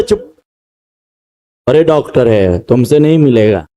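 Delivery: low, dismissive hush from the crowd; scolding crowd. Acted. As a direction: shush him down like an annoyed bystander. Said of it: "बोलते थे". (भीड़ एक अंधे को डांटकर चुप कराती है, नीची रूखी आवाज़ में)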